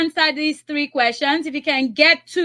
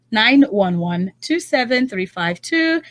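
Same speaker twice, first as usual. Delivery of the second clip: slow, spelled-out phone number; deliberate number reading; slow dictation; slower than usual. Real, not acted. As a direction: read each digit slowly for callers. Radio host slowly dictating phone number.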